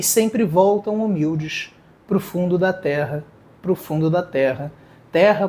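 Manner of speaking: lyrics read aloud as a poem, calm and measured. Shown as a demonstration. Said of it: "mas eu vou ler pra você".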